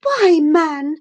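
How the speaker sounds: angry outburst. Acted. Gentleman rounding angrily on the old servant. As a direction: snap at the servant in outrage. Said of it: "facing him angrily".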